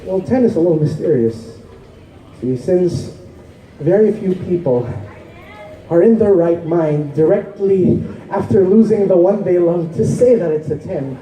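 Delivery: measured, explanatory poetry recital; spoken-word poem. Acted. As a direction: recite it like a stage poem, stressing key words. Poem's closing lines.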